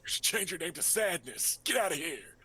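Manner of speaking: loud sneering insult; mean jeer. Pretend. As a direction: spit it out with contempt. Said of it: "he's not".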